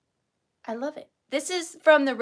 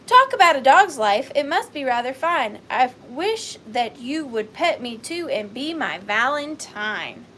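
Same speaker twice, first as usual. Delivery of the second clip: reading the card; 7 dB louder than usual. Retold or imitated. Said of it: "I'm gonna start crying".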